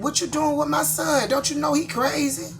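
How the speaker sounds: high, loud mock old lady asking; mother-in-law voice. Mother-in-law warning her son's girlfriend, high mock voice. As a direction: pitch up high for his mama. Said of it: "she looked at me and said".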